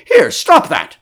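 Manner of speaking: loud, high-pitched order to stop; sudden alarmed order. A narrator's reading. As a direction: call out sharply to stop him. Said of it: "suddenly realizing what was happening".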